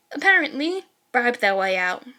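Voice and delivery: dead flat, no emotion; deadpan. Acted. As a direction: drop the joke with a straight face. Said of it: "Completely deadpan".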